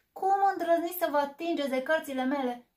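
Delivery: loud, high furious scolding; how dare you, raging; angry bear. Acted. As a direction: bear furious at friends touching his books.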